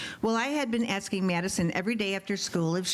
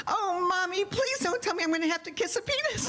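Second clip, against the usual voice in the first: put-on little girl; 10 semitones higher than usual. Daughter voiced in a story.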